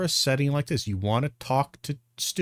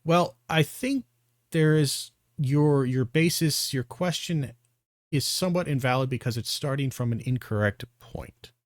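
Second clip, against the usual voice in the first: calm reply; 3 semitones higher than usual. Shown as a demonstration. Showing how to answer a student calmly. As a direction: answer like a patient teacher would. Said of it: "you can simply just bring up like this".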